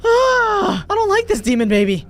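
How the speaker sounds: high, slow whimpering complaint; half-sobbing, high and drawn out; whiny mock sob. Real, not acted. Scared babysitter whimpers at the demon baby.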